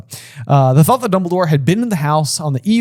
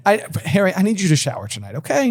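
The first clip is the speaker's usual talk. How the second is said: mock fussy mother; 4 semitones higher than usual. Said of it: "she's like".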